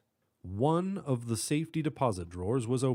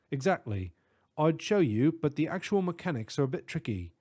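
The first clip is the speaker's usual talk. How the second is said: put-on British accent; 4 semitones higher than usual. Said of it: "distinct British accent".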